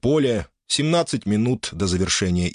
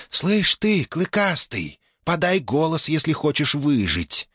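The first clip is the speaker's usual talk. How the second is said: cheeky spirit; 8 semitones higher, slower than usual. Acted. Wind spirit urges orc.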